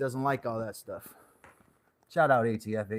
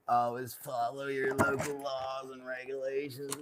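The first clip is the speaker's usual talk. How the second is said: mock disclaimer; 3 semitones higher, 6 dB quieter than usual. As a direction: recite the rule softly like a disclaimer.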